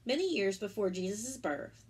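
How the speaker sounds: gentle storybook narration; reading to children. Acted. Teacher reading the Easter story to children, storybook voice. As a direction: tell it warmly to little ones.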